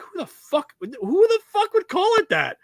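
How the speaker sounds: high, exasperated mock rant; disbelieving son scoffing; incredulous self. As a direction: scoff at the silly name. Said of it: "I'm like".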